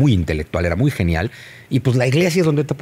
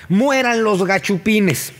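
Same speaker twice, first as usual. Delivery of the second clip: slow mock battle cry; 9 semitones higher, much slower than usual. Quoting Hidalgo's cry.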